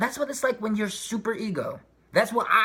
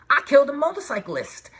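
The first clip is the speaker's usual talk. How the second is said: mock horror; 8 semitones higher, 6 dB louder than usual. Imagined horror at killing.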